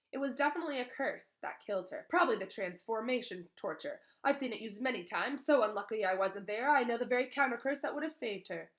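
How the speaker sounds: a hint of a pompous celebrity wizard; boastful Lockhart. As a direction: brag breezily like a know-it-all.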